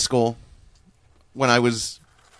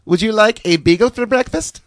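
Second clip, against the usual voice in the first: a hint of German mom, higher; lightly voiced mom; 6 semitones higher than usual. Son recalls mom at breakfast, lightly voiced. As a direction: ask it sweetly like mom. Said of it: "my mom asked".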